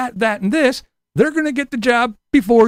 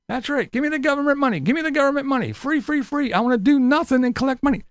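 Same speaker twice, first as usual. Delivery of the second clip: mocking freeloader; 3 semitones higher, faster than usual. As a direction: whine for free money like a caricature.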